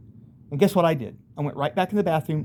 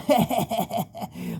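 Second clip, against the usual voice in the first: mocking demon laugh; 7 semitones higher than usual. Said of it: "they're, like, laughing".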